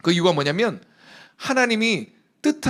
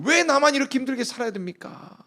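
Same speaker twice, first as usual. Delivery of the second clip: arguing prayer; 5 semitones higher than usual. Acted. Hannah arguing with God in prayer, pitched higher. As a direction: challenge God, why up high. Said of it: "따지면서 물었을 거예요".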